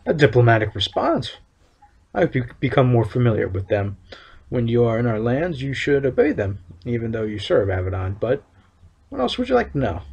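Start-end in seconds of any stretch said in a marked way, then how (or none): 2.1-10.0 lightly voiced stern official, measured and solemn; town overseer. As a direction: read it as a proud town overseer laying down the law. Reads overseer's NPC lines.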